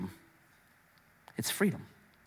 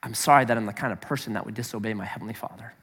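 soft, much lower, fast confession; a quiet, understated hint of a heartbroken penitent; preacher voicing godly sorrow for the congregation; contrite penitent; 7 semitones lower, 9 dB quieter, faster than usual. Shown as a demonstration. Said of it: "Godly sorrow is".

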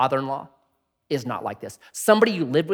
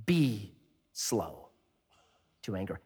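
slow reading; 7 semitones lower, 12 dB quieter, slower than usual. Shown as a demonstration.

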